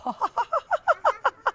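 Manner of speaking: high, voiced-apart chuckle. Both children chuckling at their noisy stomachs. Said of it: "they both began to chuckle".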